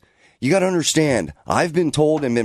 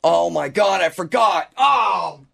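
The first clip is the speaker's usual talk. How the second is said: sudden higher alarmed outburst; surprised; 4 semitones higher, slower than usual. Real, not acted. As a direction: blurt out a realization. Forgot to clock in.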